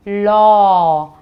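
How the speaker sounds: लौ said loud and open, vowel stretched; teacher modelling लौ to repeat; clear model word. Shown as a demonstration. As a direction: model लौ for the class. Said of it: "बोलिए मेरे साथ".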